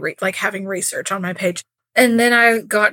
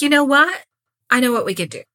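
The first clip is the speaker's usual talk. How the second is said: plotting eagerly; 4 semitones higher, faster than usual. Acted. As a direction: pitch the idea like a sudden brainwave. Quoting the scheming women's idea.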